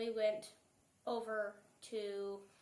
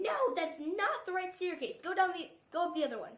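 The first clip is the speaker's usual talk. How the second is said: imitating a scolding in a raised pitch; mock telling-off, only a little louder; retold mild yell; 5 semitones higher, 3 dB louder than usual. Child retells being sent to the other staircase, mildly mock-yelling. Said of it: "they yelled at us".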